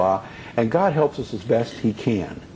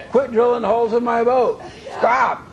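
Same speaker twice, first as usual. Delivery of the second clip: fed-up command; 10 semitones higher than usual. Retold or imitated. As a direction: order him off through a laugh. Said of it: "got up to here with it and said".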